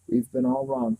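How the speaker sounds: high, recorded-sounding voice; canned voice. A narrator's reading. The possessed boy speaking like a recording to Meg. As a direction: sound like a playback, not a person. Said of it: "might have been a recording".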